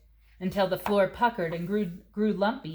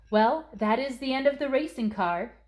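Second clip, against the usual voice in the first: high-pitched motherly announcement; mother's verdict; 6 semitones higher, 3 dB louder than usual. Acted. Mother telling Christina the racing car is done, high-pitched. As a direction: close the matter kindly but firmly.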